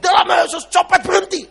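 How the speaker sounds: very high-pitched cry; imitated command cry. Pastor retelling his order to the pickpocket, imitated high cry. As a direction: re-enact the command high and urgent. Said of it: "dia ngomong".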